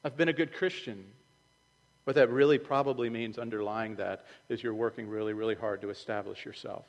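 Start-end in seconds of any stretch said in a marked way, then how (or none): 0.0-1.0 mock smug. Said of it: "What does that mean".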